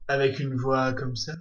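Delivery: deep, soft tough-guy rumble; low burly biker growl. Pretend. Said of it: "ça fait gros motard".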